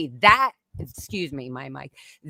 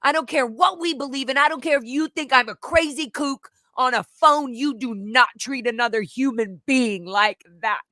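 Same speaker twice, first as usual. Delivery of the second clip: imitating Scotty; 5 semitones higher than usual. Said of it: "and saying".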